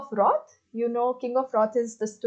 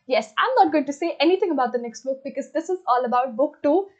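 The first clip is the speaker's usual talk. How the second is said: speaking fast; 2 semitones higher, faster than usual. Real, not acted. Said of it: "I'm speaking so fast".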